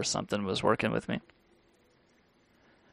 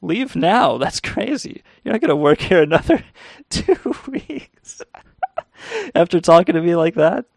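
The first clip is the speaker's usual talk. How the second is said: higher, louder outraged boss voice, laughing through it; imitating an outraged manager; 5 semitones higher, 3 dB louder than usual. Manager firing a cheeky teen on the spot, outraged. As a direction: bark it like a furious manager who can't believe it. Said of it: "she's like".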